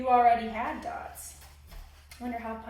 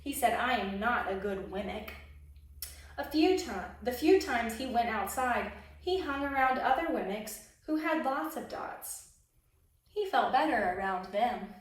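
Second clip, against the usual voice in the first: lively storybook narration; expressive picture-book reading; reading to children; 4 dB louder than usual. A narrator's reading. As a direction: read it like a children's story time. Reads a picture book aloud.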